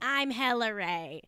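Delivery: mock Boston accent; lightly done Boston drawl. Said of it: "in both accents".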